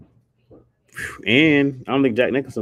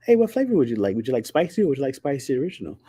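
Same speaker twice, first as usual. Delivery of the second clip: lightly put-on, higher bantering voice; acted chummy banter; 3 semitones higher than usual. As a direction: play a chatty character offering flavors. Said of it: "He just gonna say".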